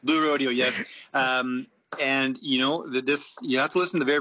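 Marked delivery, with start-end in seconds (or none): 0.0-0.5 Rodeo confirmed as ROH-dee-oh; Canadian pronunciation. Shown as a demonstration. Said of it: "How do they pronounce it in Canada".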